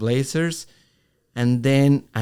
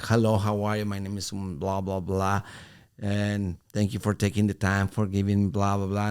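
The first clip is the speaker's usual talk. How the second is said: soft, polite sales greeting; polite pitch; 3 semitones lower, 4 dB quieter than usual. Retold or imitated. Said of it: "trying to be very professional, very polite".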